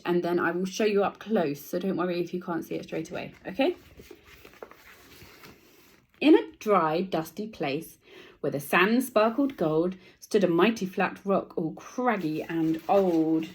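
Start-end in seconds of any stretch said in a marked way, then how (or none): 6.2-13.5 put-on storyteller voice for children; picture book read-aloud. A narrator's reading. Teacher reading a picture book to the class. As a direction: read it like a bedtime book to kids.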